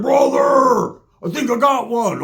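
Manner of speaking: shouting excitedly at the river. Retold or imitated. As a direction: yell out proud of the bite. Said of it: "He's over there like".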